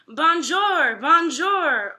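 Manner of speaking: high, loud squawking bonjour; parrot voice. A narrator's reading. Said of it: "Uncle Feather said over and over".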